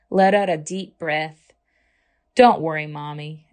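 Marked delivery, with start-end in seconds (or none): 2.3-3.5 reassuring. Acted. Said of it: "Ava reassured her".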